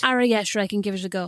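put-on Irish voice; Irish accent. Agreeing to sister's request, in Irish accent. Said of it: "reclaim that Irish accent now".

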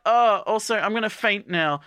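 high, airy mock faint; about to collapse, hammed-up high swoon. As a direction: announce the faint like a swooning heroine. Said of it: "she's like".

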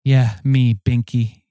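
put-on low voice for the wife. Wife voice, names herself.

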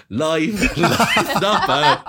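high Dublin comedian's voice, laughing; high-pitched Irish impression, breaking into laughter; David O'Doherty. Shown as a demonstration. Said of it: "almost like a David O'Doherty impression".

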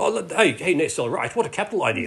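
British butler voice. Pretend. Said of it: "nacelles would talk like, like a British butler".

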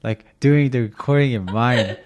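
loud laughing imitation of a protesting friend; insistent friend. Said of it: "Anna's like".

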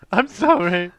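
mock apology. Mocking Dave's apology.

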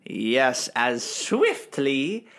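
slow, drawn-out theatrical line; hammed-up character. Improviser closing a scene in a hammed-up character voice. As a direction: stretch each word grandly, rising at the end.

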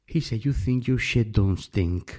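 put-on Alabama accent. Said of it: "Tienen un acento así un poco".

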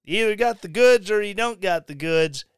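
ordinary talk

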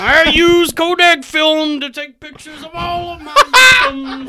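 loud, high, laughing psycho; laughing killer voice. Acted. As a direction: cackle it out like a killer. Serial killer bit, shouted laughing.

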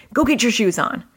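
mild scolding, not a yell; parent's stern tone. Shown as a demonstration. Parent losing her cool over shoes, mildly stern. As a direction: show a tone without shouting. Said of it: "my shouting typically is".

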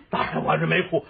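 normal talking voice

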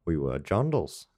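put-on Kiwi slang line; New Zealand accent. Shown as a demonstration. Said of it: "Kiwi I can do is".

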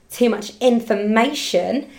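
slow, punched spelling-out; emphatic. Real, not acted. Explains TMI to listeners, emphatic.

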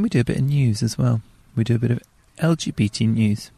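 hushed unvoiced whisper. Real, not acted. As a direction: whisper it so the people nearby won't hear. Aside in a public car park.

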